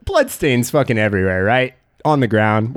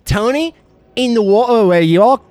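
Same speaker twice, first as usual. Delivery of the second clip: cult leader rant; 6 semitones higher than usual. Acted. Cult leader rant about principal.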